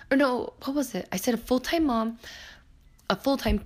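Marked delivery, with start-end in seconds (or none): none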